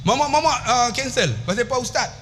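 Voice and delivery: high, lightly voiced canteen lady. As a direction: ask like the canteen auntie. Canteen lady questioning pupil.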